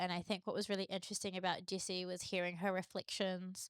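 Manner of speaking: ordinary talk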